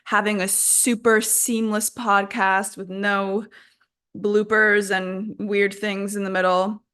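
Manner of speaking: mock-earnest boast, played straight; deadpan sarcastic self-praise. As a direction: pretend to pride yourself on being flawless. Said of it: "Obviously, that's sarcasm".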